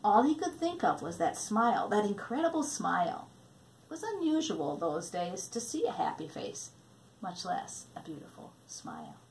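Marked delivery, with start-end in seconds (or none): 3.8-9.2 hushed whisper. A narrator's reading. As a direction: whisper it softly. Hushed storytelling, unvoiced.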